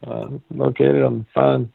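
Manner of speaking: light ad-announcer voice; a hint of a cheesy ad read; mock sponsor read. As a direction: read it like a radio sponsor spot. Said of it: "this part of the show brought to you by".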